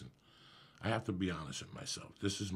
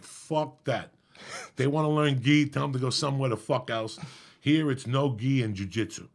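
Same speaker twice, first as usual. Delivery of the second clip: loud, higher, scornful rant; retold gruff brush-off, louder and higher; retold angry dismissal; 5 semitones higher, 9 dB louder than usual. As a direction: shout it down as the friend.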